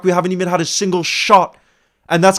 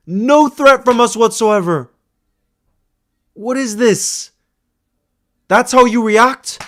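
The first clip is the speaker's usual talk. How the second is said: louder, higher, slowed in disbelief; real frustration, voice raised; exasperated outburst; 7 semitones higher, 3 dB louder, slower than usual. Real, not acted. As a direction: throw the question at the players. Fan fuming at his team.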